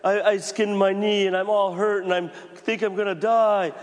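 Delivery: put-on child crying out to mom and dad; whiny hurt kid. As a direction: play the kid who thinks he's dying, hammed up. Child announcing a hurt knee.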